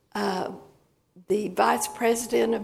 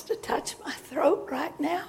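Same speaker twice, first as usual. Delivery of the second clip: whispered prayer; 4 semitones higher, 3 dB quieter than usual. Real, not acted. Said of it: "Thank you, Jesus".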